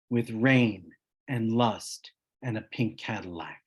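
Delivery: measured poetry recital, pausing between phrases; poem reading. Acted. Poet reads Pink Cadillac from his book to listeners, measured recital. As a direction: read verse deliberately, leaning on the key images.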